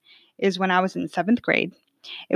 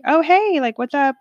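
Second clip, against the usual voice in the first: higher, louder bright surprised hi; surprised greeting; 7 semitones higher, 4 dB louder than usual. Retold or imitated. Retelling answering her grandmother's unexpected call, surprised and louder. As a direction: greet her like a pleasant shock.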